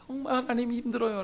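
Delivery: hushed, soft confession; humble admission. Acted. Job telling God it is hard, hushed admission. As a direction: drop to a weary, soft voice.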